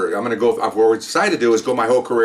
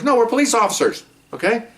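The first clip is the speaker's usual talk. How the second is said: exasperated insistence; 12 semitones higher than usual. Real, not acted. Insisting on being police.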